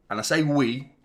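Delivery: "we" 한 단어에 힘을 실어; stress on WE. Shown as a demonstration. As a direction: lean on "we", make it the point. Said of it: "with an emphasis on the we".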